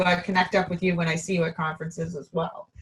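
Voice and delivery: strained, fading voice; losing voice. Real, not acted. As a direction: voice giving out. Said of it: "Just almost losing my voice there".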